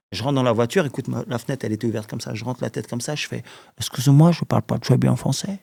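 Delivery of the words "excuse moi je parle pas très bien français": halting French in a put-on American accent; imitated American accent, hammed-up; mock American accent. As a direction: fake a clumsy American speaking French. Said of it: "non, c'est un accent américain".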